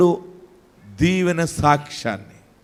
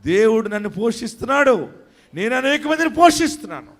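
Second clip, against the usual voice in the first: raised-pitch preaching declaration; impassioned preaching; 6 semitones higher than usual. Real, not acted. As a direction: declare it to the congregation, pitch lifting.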